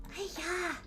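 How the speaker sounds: high, softened "hi-ya"; mock martial-arts yelp; playful karate cry. Writer fighting their own confusion, playful karate cry.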